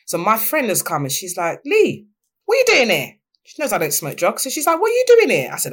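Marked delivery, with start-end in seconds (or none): 1.6-3.1 high, louder startled question; a friend stunned to find you there; shocked friend. Retold or imitated. Shocked friend sees her, retold. 4.8-5.5 high, louder startled question; a friend stunned to find you there; shocked friend. Retold or imitated.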